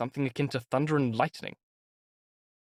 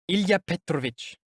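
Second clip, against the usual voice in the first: meaningful; 5 semitones higher than usual. A narrator's reading.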